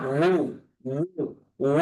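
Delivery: উ with lips fully rounded. Shown as a demonstration. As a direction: round the lips right up for a held উ. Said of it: "ঠোঁটটাকে একদম গোল করে উচ্চারণ করব". (ঠোঁট একদম গোল করে উ)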